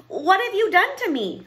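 high, loud squeal. A narrator's reading. Princess turned warthog cries at the witch, squealing. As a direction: squeal in outraged alarm. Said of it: "squealed the princess".

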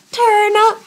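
high, sung-out hype chant; party call. Pretend. Vlogger psyching herself up for Saturday, high hype chant. Hyping up her Saturday plans.

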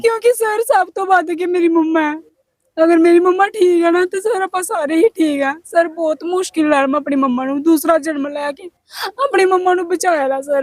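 high-pitched tearful pleading; desperate, crying daughter's plea; real crying. Real, not acted. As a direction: sob through the words about your mother. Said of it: "ਚੱਲ ਤੂੰ ਰੋ ਨਾ".

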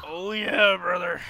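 Hulk Hogan voice. Retold or imitated. Hulk Hogan catchphrase impression.

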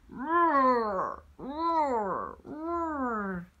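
playful mock roar, loud at first then fading; lion roar. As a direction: roar like a lion for the kids, dying away. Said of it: "the great lion's roar".

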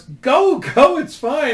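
mother urging her son on; mom coaxing. Retold or imitated. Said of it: "And she goes".

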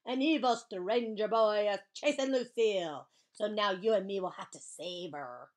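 big theatrical holler, easing off; shouting back. Acted. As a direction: shout the alarm, then ease into resolve. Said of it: "I shouted back".

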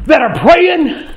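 slow, emphatic sermon delivery; deliberate revival cadence; preaching, starting to build. Acted. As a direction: stretch it out like a preacher.

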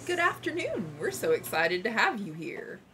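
shopkeeper voice. Acted. S0 voicing game greeter.

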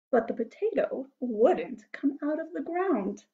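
animated storybook reading with big swelling emphasis; story narration. A narrator's reading. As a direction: build the wonder for small listeners.

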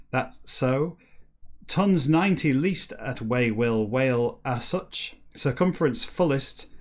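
slow, halting read of scrambled words; careful reading of a book passage; reading aloud backwards. Acted. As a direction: pick through the reversed sentence word by word. Reads Moby Dick text backwards.

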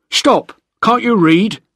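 high, loud shout of alarm; shouted challenge. A narrator's reading. Guard shouting at a man landing on the island, shouted challenge. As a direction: shout it sharply to halt an intruder. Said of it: "he shouted".

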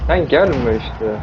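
Sen gelme işte stretched out very slowly; slow drawn-out plea. Real, not acted. Gamer begging a zombie to stay away, very slow and drawn.

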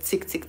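repeated dry tsk sounds; tutting softly; disapproving tongue clicks. Shown as a demonstration. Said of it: "you're just doing that with your head".

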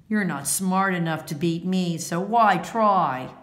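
jeering bully, lightly voiced; taunting. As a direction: sneer it at her to make her feel small. Bad sport taunting partner.

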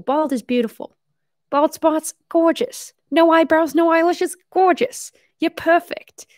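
high, gushing praise in short bursts; gushing hype. Real, not acted. Streamer cheering on viewers with hair loss, high and gushing. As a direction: hype them up in a high, adoring voice.

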